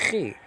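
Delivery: chi with a long raspy throat fricative; guttural ch. Shown as a demonstration. Teacher comparing Hebrew gutturals to Greek, guttural. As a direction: rasp the start of chi like Hebrew. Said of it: "you got some gutturals".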